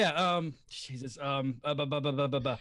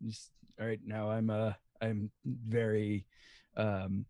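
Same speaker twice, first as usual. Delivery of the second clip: Lex; 11 semitones lower, 5 dB quieter than usual. Acted. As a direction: sink into a deep quiet character voice. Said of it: "I can do Lex".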